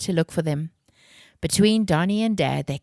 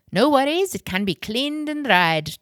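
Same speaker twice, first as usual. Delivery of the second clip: reassuring; 8 semitones higher than usual. A narrator's reading. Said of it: "Donnie reassured her".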